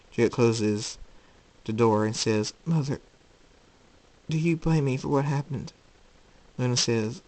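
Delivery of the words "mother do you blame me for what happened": higher, pleading question; anxious son. Acted. Jacob seeking his mother's forgiveness, anxiously pleading. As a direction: ask as if dreading the answer.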